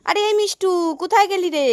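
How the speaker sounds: high, loud call across the yard; calling loudly. Acted. Mother searching for her children, calling loudly. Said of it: "জোরে জোরে ডাকি।".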